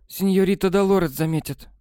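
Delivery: usual speaking voice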